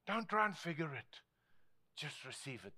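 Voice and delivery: soft, falling low; calm hushed answer. Retold or imitated. Preacher answers the puzzled believer, calm and hushed. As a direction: answer gently, letting the voice sink. Quiet answer to the baffled question.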